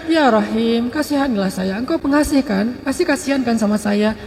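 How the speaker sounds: rengekan pelan penuh harap, diucapkan lambat; merengek memohon. Acted. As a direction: memelas seperti nenek yang terus memohon kepada Allah. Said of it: "Ilhah itu artinya merengek". (nenek merengek kepada Allah, memelas pelan)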